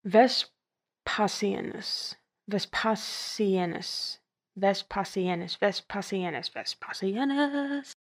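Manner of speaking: Vespasianus drilled slowly, ves-PAH-see-en-us; slow practice. Shown as a demonstration. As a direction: sound out Vespasianus. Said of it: "let's try this again".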